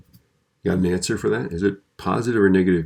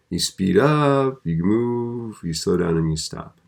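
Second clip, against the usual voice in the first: acting out traffic; 2 semitones higher, slower than usual. Shown as a demonstration. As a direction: stretch it like a car revving up, then let the pitch fall.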